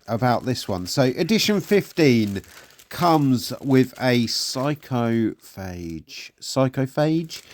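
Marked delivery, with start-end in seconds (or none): 4.2-6.3 psychophage sounded out slowly in parts; slow, careful try at psychophage; tentative pronunciation. Real, not acted. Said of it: "I think that's how you say it". 6.4-7.4 Psychophage repeated slowly, a little higher; unsure, questioning go at Psychophage; tentative pronunciation. Real, not acted. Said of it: "I think that's how you say it".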